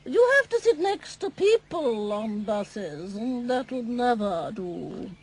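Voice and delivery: disdainful refusal. Acted. Snooty Miss Splendid refusing.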